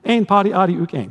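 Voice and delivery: ringy, rhythmic chant; catchy jingle. Retold or imitated. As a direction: lilt it like a catchy jingle, stress on "Ein". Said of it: "Kind of has a nice little jingle to it".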